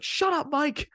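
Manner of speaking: sudden high, loud mock yell; snapping yell. Seth snapping at Miz mid-promo, a high, loud mock yell. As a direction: bark the name out, fed up. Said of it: "just snaps on".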